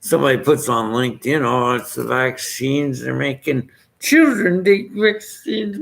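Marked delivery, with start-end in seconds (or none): 1.4-5.8 mocking. Mocking a LinkedIn poster.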